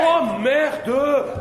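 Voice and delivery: loud, high dismayed swearing; alarmed curse. Acted. Fears they have been seen.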